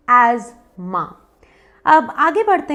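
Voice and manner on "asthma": asthma as "az-ma", silent th; correct pronunciation. Shown as a demonstration. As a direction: buzz the s as z in asthma, no th. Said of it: "correct उच्चारण है". (asthma को "ऐज़-मा" बोलें, थ चुप)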